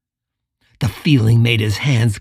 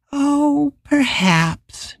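whisper; 13 semitones higher, much slower than usual. Acted. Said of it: "Drouillard whispered".

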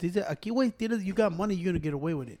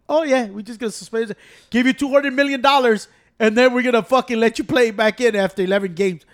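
loud mocking league voice, much louder and higher; 3 semitones higher, 7 dB louder than usual. Mocking the NFL for letting a player back, loud and sarcastic. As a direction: sneer it out like a smug league official.

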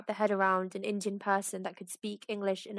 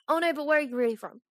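quick pushy quote, a bit higher and louder; impatient prying quote; 5 semitones higher, 4 dB louder, faster than usual. Retold or imitated. Nosy stranger demanding where he's really from, quick and pushy. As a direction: press him like a nosy stranger who won't take Kenya as an answer.

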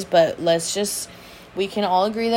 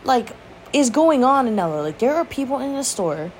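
scolding herself; 4 semitones higher than usual. Retold or imitated. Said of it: "And I'm like".

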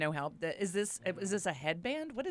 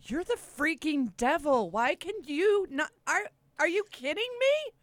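higher, rising frustrated rant; 9 semitones higher, 4 dB louder than usual. Acted. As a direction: vent all your frustration. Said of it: "I'm very frustrated".

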